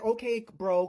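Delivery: loud, high dismissive retort; mocking retort. Retelling her answer to the man's threat, mocking. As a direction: toss it back loudly in mockery.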